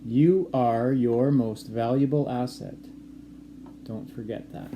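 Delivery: steady teacher dictating a quote; slow dictation. Shown as a demonstration. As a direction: read it out clearly so they can write it down. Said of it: "One more time".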